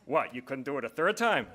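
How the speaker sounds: a light mock Yiddish accent, laughing; playful Yiddish lilt, barely put on. Host joking back to the president about his plug, light Yiddish accent. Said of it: "in the best Yiddish accent I could come up with".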